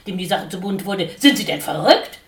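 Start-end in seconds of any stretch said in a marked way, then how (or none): 1.2-2.2 louder exasperated demand; angry shout. A narrator's reading. Dickhop yells at the sparrow in exasperation. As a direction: shout him down. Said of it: "schrie Dickhop".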